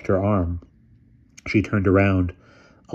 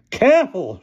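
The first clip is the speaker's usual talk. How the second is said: put-on old lady voice; 14 semitones higher, 6 dB louder than usual. A narrator's reading. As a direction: speak like a commanding elderly aunt.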